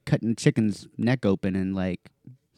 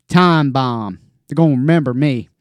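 ominous deckhand; 3 semitones higher, 10 dB louder than usual. Retold or imitated. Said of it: "he looked at me".

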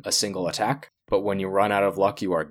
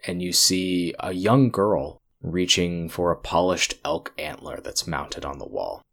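measured scene-setting narration; game master narration. A narrator's reading. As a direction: paint the vision for the player. GM narrates vision.

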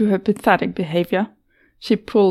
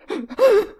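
broken sob; 13 semitones higher than usual. Acted. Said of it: "it became a broken sob".

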